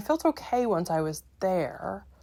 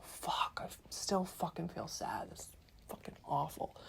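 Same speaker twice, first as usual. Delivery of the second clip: dejected muttering; 10 dB quieter than usual. Retold or imitated. Retelling waking up still sad, dejected and hushed. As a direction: mutter it under your breath, much softer.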